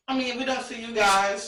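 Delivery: eating while talking; words round a mouthful of food; mouth full. Real, not acted. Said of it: "I'm eating and drinking".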